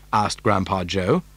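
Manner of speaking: ordinary delivery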